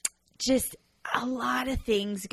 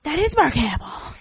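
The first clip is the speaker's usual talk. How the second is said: high, louder confirming exclamation; excited recognition; 7 semitones higher, 5 dB louder than usual. Retold or imitated. Co-host confirming the actor's cameo, excited. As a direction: act out thrilled certainty.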